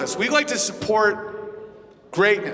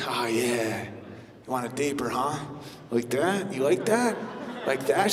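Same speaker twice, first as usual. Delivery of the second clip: much lower and softer, hammed-up bedroom voice; mock seductive husband; 9 semitones lower, 9 dB quieter than usual. Husband trying harder in bed, low mock seductive. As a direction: croon it low to keep her pleased. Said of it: "You're like".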